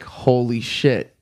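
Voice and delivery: slow, dawning disbelief; stunned recognition. Retold or imitated. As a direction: let it sink in slowly. Sudden recognition of celebrity.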